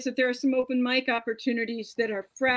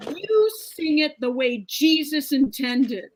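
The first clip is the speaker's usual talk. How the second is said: slow, louder mock scolding; upset mother; 3 semitones higher, 5 dB louder, slower than usual. Mother scolds the singer after church, upset. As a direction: imitate an indignant mother laying down the law. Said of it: "got very upset".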